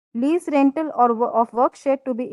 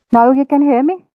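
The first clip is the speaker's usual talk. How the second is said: much louder, testing the mic; 2 semitones higher, 9 dB louder than usual. Real, not acted. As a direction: speak up loudly so they hear. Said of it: "आपको थोड़ा louder बोलना पड़ेगा।".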